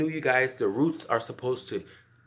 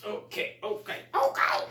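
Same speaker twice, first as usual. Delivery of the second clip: whispered okay; 8 semitones higher than usual. Real, not acted. Quietly settling after tightening.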